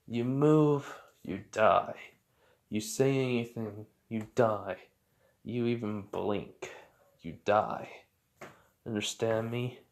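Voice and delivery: mildly menacing, in separate short phrases; measured threat. Acted. Captor to a trapped man at his neck, measured threat. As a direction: lay down each condition, then pause.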